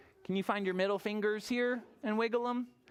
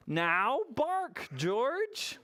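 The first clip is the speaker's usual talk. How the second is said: lightly acted, higher storybook mother; coaxing mother; 5 semitones higher, much slower than usual. Mother dog telling George to bark, lightly acted coaxing. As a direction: coax the pup with a lifted pitch. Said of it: "said George's mother".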